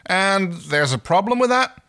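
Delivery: high, loud challenging question; indignant. Acted. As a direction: throw it back at her. Crichton challenging Erin.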